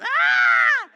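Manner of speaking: loud high straining grunt-yell; strained yell. Retold or imitated. Fluffy strains on the toilet, loud high yell. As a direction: let out a loud effort yell. Pushing in bathroom.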